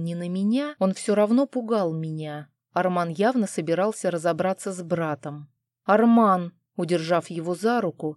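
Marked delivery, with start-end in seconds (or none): 5.8-6.5 a sudden, louder cry of the name; exclaiming. Acted. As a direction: stop him with his name, loud. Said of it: "вскликнула я". (вскрикнуть «Арман!» громко)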